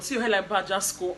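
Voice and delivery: loud, openly thrown insult; hammed-up heated taunt; mock insult. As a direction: imitate a childish jibe at full voice. Imitating housemate's crude insult.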